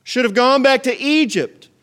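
very high, loud mocking whine; mock whining crowd. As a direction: wail it like the grumblers. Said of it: "they said".

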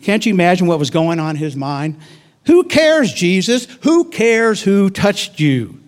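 high, loud exasperated outburst; exasperated Jairus. Retold or imitated. Jairus snaps at Jesus over the delay, high and exasperated. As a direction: throw it away in frustration. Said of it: "I'm sure Jairus was saying".

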